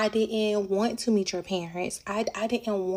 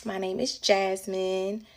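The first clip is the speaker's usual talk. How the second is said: confronting the other woman; 5 semitones higher than usual. Retold or imitated. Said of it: "I was like".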